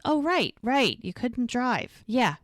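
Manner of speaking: acted-out sarcastic agreement; mock agreement. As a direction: echo the excuse back in disbelief, imitating a fed-up partner. Acted sarcastic echo of his excuse.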